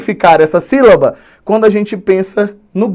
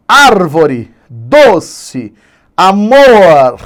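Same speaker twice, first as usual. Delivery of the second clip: ÁR in "árvore", DO in "doce", MOR in "amor" loud and drawn out; stressed tonic syllable; 4 dB louder, much slower than usual. Shown as a demonstration. Teacher showing the stressed syllables, stressing ÁR-vore, DO-ce, a-MOR. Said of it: "maior intensidade de pronúncia".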